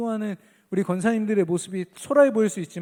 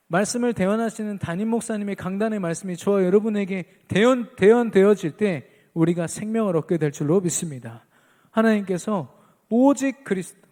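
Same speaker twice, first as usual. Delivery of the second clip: louder, driving sermon delivery; forceful preaching; 3 semitones higher, 7 dB louder than usual. Real, not acted. Preacher declaring faith to the congregation, forceful preaching.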